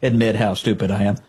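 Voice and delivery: a lightly voiced self-satisfied anchor; preening, as if proud of the admission; smug show-off mockery. Mocking the anchor's correction as bragging, light smug voice. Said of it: "he's like a show off".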